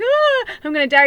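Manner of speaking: high, loud hammed-up panic cry; mock panic. Reader playing a panicking viewer, hammed-up high loud cry. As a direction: shriek it in mock terror.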